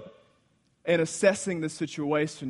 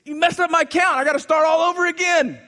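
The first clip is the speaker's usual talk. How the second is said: annoyed Philip; 13 semitones higher, 10 dB louder than usual. Acted. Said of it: "And he's".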